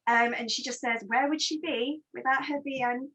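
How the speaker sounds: winded reading; short breaths between phrases; shallow breathing. Real, not acted. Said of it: "Sorry, I'm so out of breath".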